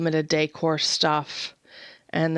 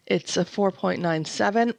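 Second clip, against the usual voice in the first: whisper. Real, not acted. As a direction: voice drops to an unvoiced whisper.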